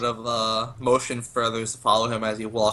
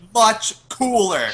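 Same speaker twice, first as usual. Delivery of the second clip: excited boast; 8 semitones higher, 4 dB louder, slower than usual. Acted. Boasting in character.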